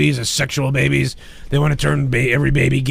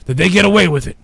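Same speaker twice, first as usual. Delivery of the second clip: building mock anger. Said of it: "I'm angry about it".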